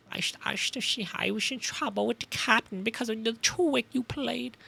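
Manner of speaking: lightly voiced German villain with a soft menace; evil German professor voice. Sailor accusing the detective, in a faint German villain voice. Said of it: "the other voice".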